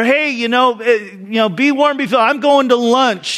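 high, casual and dismissive, already leaving for lunch; mock careless farewell; offhand brush-off. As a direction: toss off the blessing while walking away. Second version of the glib brush-off.

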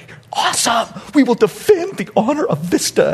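put-on kids cheering back. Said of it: "they're like".

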